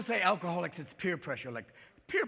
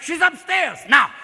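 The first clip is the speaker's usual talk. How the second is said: high, loud, slow mock tattling; shouted stage line; 9 semitones higher, 13 dB louder, slower than usual. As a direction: holler it to the whole house. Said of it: "French production of Anne Frank".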